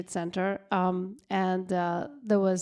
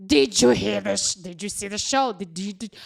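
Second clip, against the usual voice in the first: excited calling; 5 dB louder than usual. Retold or imitated. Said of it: "I'm like".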